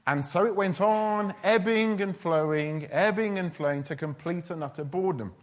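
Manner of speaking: drawn-out, droning rise and fall; mock tedious drone; slow and monotonous. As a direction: drag it out like a dreary chant. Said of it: "slow and monotonous way".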